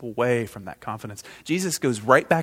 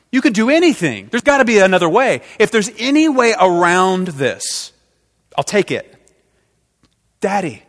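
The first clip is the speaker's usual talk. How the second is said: higher and much louder, desperate begging; anguished loud plea; 6 semitones higher, 9 dB louder than usual. Acted. Jesus begging his father in the garden, loud anguished plea. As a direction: beg with everything you have.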